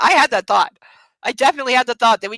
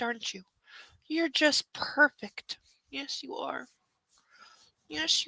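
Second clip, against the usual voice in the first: soft murmuring; 3 semitones higher, 5 dB quieter than usual. Real, not acted. Murmuring to sleepy puppy.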